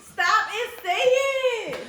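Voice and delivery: slow, laughing through the words; words squeezed out mid-laugh. Real, not acted. Can't stop laughing.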